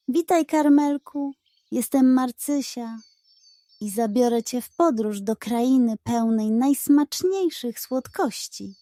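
a happy, squeaky cloud fairy greeting; joyful squeak. Acted. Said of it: "zapiszczała radośnie". (radosny, piskliwy głosik chmurki)

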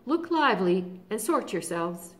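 loud, brisk marching orders; commanding lion. Acted. Aslan sorting the army, loud orders. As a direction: order the crowd about.

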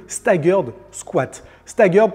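English words with a French accent; careful English with a French accent. Real, not acted. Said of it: "pardonnez mon accent anglais".

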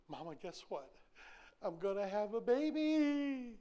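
thrilled, drawn-out news to Mama; excited daughter. Retold or imitated. Young wife calling her mother, excitedly announcing the baby. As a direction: gush the news like a new mom-to-be.

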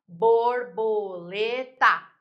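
"Borboleta" very slowly split bor-bo-le-ta; four separate beats in "Borboleta": bor, bo, le, ta; slow, deliberate bor... bo... le... ta; syllable by syllable. Shown as a demonstration. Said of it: "quatro ou mais".

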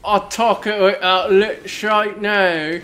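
slow lipless talk drifting into British; lipless, going British. Shown as a demonstration. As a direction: talk without lips in a wobbly British accent. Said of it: "Now you're going British".

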